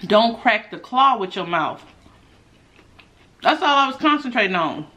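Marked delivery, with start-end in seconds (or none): 0.0-1.8 slow, careful self-warning; inner reminder. Retold or imitated. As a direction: remind yourself slowly and deliberately. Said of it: "I kept thinking".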